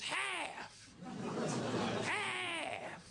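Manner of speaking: put-on very high, slow frantic old woman cry; panicked old woman. Old woman over the beaten guy, shrill panicked wail. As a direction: wail it like a terrified old lady. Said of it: "And then just".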